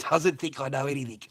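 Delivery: chuckling disbelief; laughing. Shown as a demonstration. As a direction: repeat it through a laugh.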